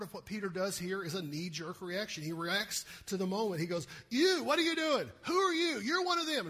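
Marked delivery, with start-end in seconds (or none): 4.1-6.5 high, loud accusing yell; accusing shout. Retold or imitated. Servant girl calling Peter out, loud accusing shout.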